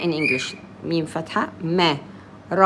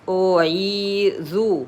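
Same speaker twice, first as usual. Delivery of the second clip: slow أعيذ, ee held two beats; two-count ya; slower than usual. Shown as a demonstration. Teacher gives the ya two periods, lengthening the ee in أعيذ. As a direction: stretch the ee in the middle of أعيذ. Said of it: "Give it two periods".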